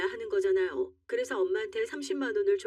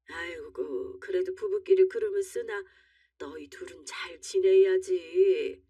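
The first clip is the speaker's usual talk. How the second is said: concerned mother; slower than usual. Acted. Mother gently scolds the couple.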